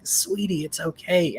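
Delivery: soft, tender comfort to a crying son; hushed, loving "it's okay"; gentle reassuring mother. Retold or imitated. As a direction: ease him gently, like a loving mom.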